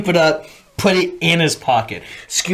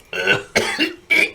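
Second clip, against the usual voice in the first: high strained choking noise; imitated choking; 13 semitones higher than usual. Recruit getting spit on, acted choking. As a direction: gag as if spit went up the nose. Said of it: "fucking spit up my nose".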